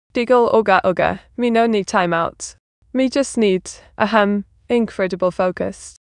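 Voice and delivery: a hint of caveman broken speech; lightly voiced caveman, proud and dim. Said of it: "time out like a caveman".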